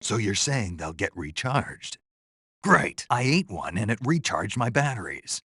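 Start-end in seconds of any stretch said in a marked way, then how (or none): 2.6-5.4 high, excited outburst; delighted. Acted. Telling the paramedic the mushroom recharged batteries, delighted. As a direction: burst out with glee, pitch up.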